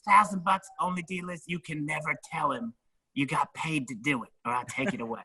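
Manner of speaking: high conspiratorial put-on voice; imitating Ralphie. Ralphie offering a grand backstage, high sly voice. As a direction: pitch up and tempt him with the cash.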